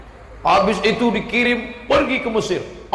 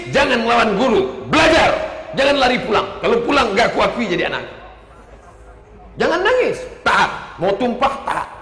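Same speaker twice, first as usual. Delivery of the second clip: put-on stern parental orders to a kid being left behind; ibu tegas; 3 semitones higher than usual. Ibu menasihati anak di pesantren. (ibu tegas menasihati anak yang ditinggal di pondok)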